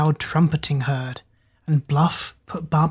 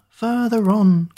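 slow, higher, louder call, punching "further"; drawn-out call; 5 semitones higher, 3 dB louder, slower than usual. Acted. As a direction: stretch "further on", hitting "further" hard. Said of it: "cried Hoodoo".

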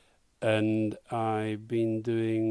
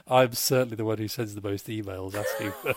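amused, breaking into laughter. Real, not acted. Learner admits pestering the online tutor, breaking into laughter. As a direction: laugh creeping into the words.

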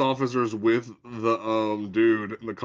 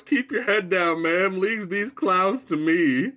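higher, slow hammed-up hero voice; a hammed-up polite Batman; mock gallant Batman; 6 semitones higher, slower than usual. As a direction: play a chivalrous hero, over the top. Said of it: "Batman gets there and goes".

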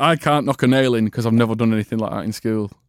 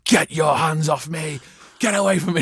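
mock fending off; 3 semitones higher than usual. Drama teacher to lad about to attack her, mock alarmed. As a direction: play-act warding off an attacker, pitch climbing. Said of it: "looked like he was about to attack her".

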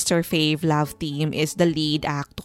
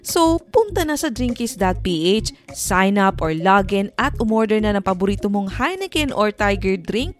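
upbeat sponsor ad voice; ad read; 3 semitones higher than usual. Acted. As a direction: sell it like a radio ad.

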